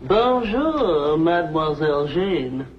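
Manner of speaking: "Bonjour, Mademoiselle Jane" in crisp French; French greeting. Shown as a demonstration. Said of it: "Now say it".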